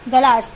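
गलास said as galas; गलास, plain ga; without the i sound. Shown as a demonstration. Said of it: "गा पे मात्रा आएगी ना". (गलास बिना मात्रा के)

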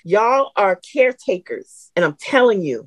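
usual speaking voice

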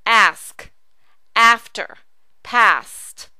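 "ask", "after", "past" with a long open ah; teacher drilling the ah in "ask", "after", "past"; long ah vowel. Shown as a demonstration. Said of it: "ah sound".

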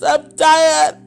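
tearful, voice catching; crying. Real, not acted. Worn-out believer pleading with God over bills, crying. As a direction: let the tears come through the words. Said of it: "And I was crying".

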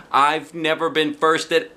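high, loud squeal; squealing happy child; real squealy. A narrator's reading. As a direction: squeal with joy. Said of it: "I said real squealy".

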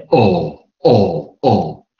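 哦 as a pure "aw", with no closing "oo"; British-style back vowel on 哦; O without U. Shown as a demonstration. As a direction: hold each 哦 open, no glide. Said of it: "O不要念U音的时候，我们叫哦".

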